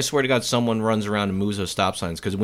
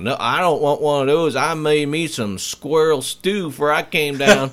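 quoting the squirrel-stew guy; 3 semitones higher, 3 dB louder than usual. Retold or imitated. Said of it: "they asked him".

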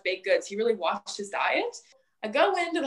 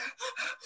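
imitated gasping; 14 semitones higher, 9 dB quieter than usual. Imitating grandparent before paramedics.

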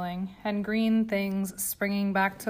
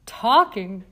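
higher and louder, building to incredible; mock outrage that swells with each phrase; snorting, excited; 5 semitones higher, 5 dB louder than usual. A narrator's reading. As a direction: friend teasing Yetta, climbing higher and louder. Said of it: "Jane snorted".

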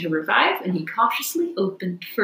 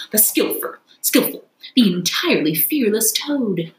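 boastful Toad. Acted. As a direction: crow like a triumphant rogue.

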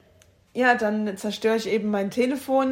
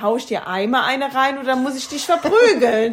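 laughing; 4 semitones higher, 8 dB louder than usual. Pretend. Joking threat, laughing.

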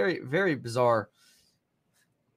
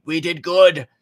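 mock Biden; 4 semitones higher, 8 dB louder, slower than usual. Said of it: "what's Biden gonna say?".

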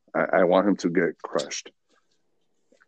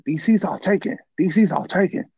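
high, mock Chinese lady voice; imitating the Chinese lady, high; 12 semitones higher than usual. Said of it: "like, uh, Chinese accent".

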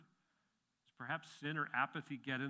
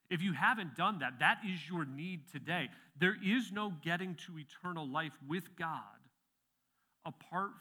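louder, urgent preaching voice; forceful preaching; 4 semitones higher, 6 dB louder than usual. Acted. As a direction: press the point home to the congregation.

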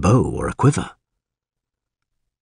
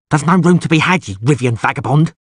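hostile rasp, higher and louder; 6 semitones higher, 3 dB louder than usual. A narrator's reading. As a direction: rasp it out as a threat. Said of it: "rasped the pockmarked man".

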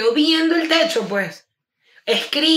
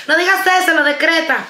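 riendo; 4 semitones higher, 4 dB louder than usual. Retold or imitated. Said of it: "Yo no soy como que".

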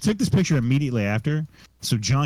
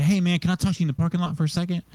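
quick, higher-pitched aside; mock placating; 5 semitones higher, faster than usual. Van guy calming things down with the driver, quick and placating. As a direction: imitate a hurried attempt to smooth things over. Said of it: "trying to calm the situation down".

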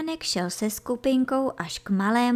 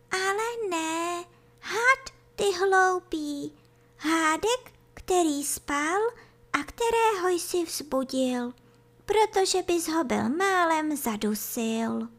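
high, small creature voice; tiny slowworm voice; 9 semitones higher than usual. A narrator's reading. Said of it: "docela slabonký hlásek". (slabounký vysoký hlásek)

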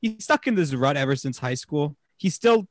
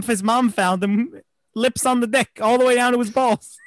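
excited punchline; 8 semitones higher, 5 dB louder than usual. Real, not acted. Gleefully telling the crude punchline.

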